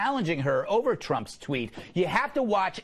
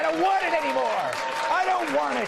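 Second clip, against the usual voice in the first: whiny, louder, higher pouting; mock hurt sulk; 8 semitones higher, 3 dB louder than usual. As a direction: sulk like a spurned performer. After no applause, mock hurt.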